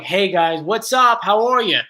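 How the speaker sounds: Philly-Jersey accent coming out when tired; tired regional accent. Shown as a demonstration. Streamer showing their tired speech, Philly-Jersey accent. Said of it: "if I'm really tired, it's more like".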